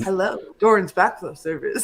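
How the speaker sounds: over the phone. Retold or imitated. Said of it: "Do you put your telephone voice on".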